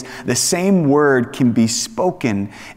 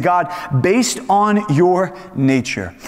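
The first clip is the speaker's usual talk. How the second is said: humble plea; slower than usual. Retold or imitated. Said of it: "He is saying".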